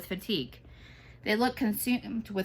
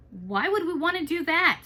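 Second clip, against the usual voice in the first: Antonio voice; 8 semitones higher, 5 dB louder than usual. A narrator's reading. Antonio voiced in a read story.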